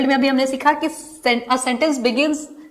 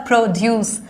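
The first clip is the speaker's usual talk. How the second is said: "प्रोड्यूस" leaning on ड्यूस; stress on second syllable; 3 semitones lower than usual. Shown as a demonstration. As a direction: put the weight late, on ड्यूस, in "प्रोड्यूस". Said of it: "second syllable पे stress होगी".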